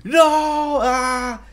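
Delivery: high, loud cartoonish demon wail; mock demon shriek. Demon hammily shrieking as it's scolded. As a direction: shriek like a beaten monster. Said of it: "the demon's like".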